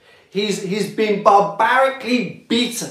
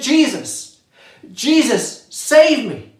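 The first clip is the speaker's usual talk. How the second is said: crying out; 3 semitones higher than usual. Retold or imitated. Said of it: "the criminal is crying out".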